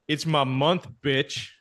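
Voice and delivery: matter-of-fact retold taunt; unfazed trash talk. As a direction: toss off the taunt without breaking stride. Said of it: "without breaking stride. He goes".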